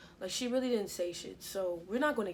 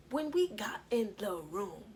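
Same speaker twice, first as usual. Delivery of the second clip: hushed, breathy buildup; suspense whisper. Acted. Telling viewers about the room, in a whisper. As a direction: whisper it like a secret.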